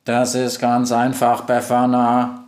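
slow, even robot voice; unhurried monotone computer; robot Globus. Acted. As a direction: explain like a machine, syllable by syllable. Robot Globus answers the witch.

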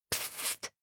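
a sharp whispered psst; hushing psst. Acted. Charlie warning the friends in the kitchen, whispered psst. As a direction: hush them with a breathy psst.

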